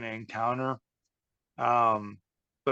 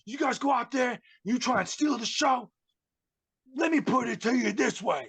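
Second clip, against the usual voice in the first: mock angry insistence; 11 semitones higher than usual. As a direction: lecture them like an indignant star. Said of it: "He's like".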